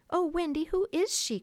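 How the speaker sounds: high, loud eager question; excited cry. A narrator's reading. Nibs asking though he knows the answer, excited. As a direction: burst out, pitch soaring. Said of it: "every bit as excited as if".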